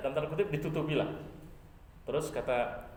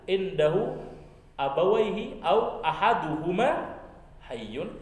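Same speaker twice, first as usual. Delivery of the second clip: solemn loud question; 3 semitones higher, 5 dB louder, much slower than usual. Acted. Prophet asks about parents.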